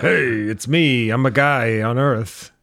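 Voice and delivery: slow, lightly hammed-up New Hampshire accent; a slow, half-hearted stab at a New Hampshire accent; mock New Hampshire accent. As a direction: imitate a sleepwalking actor's broken New Hampshire accent. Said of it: "like, a broken Nashua, New Hampshire accent".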